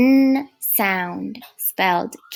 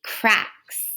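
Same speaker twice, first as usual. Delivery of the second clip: whispered. Shown as a demonstration. Vocabulary word said for effect.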